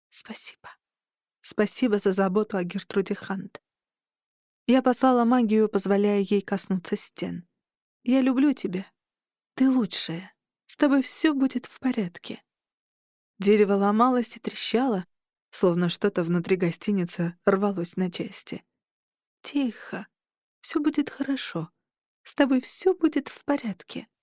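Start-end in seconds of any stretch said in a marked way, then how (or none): 0.1-12.4 tender farewell. Acted. Dying Dina thanks inn tenderly. 19.4-24.1 soft, high, tender reassurance; soothing. Acted. Soothing the dying inn.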